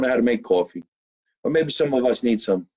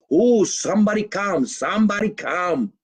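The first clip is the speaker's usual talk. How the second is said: lightly voiced grandmother calling out; grandmother's voice; 6 semitones higher than usual. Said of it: "my grandmother who talked like that".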